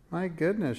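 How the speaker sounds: high, sudden realization; surprised exclamation. Acted. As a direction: gasp it as the idea hits. Stops short realizing something.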